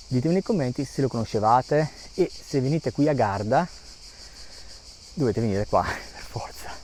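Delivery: panting while walking uphill; breathless between words; out of breath. Real, not acted. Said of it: "Scusate un po' il fiatone".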